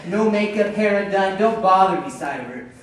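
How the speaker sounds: fed-up husband, half laughing in exasperation; exasperated rant. Acted. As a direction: vent like you've had it. Complaining about wife's shorts.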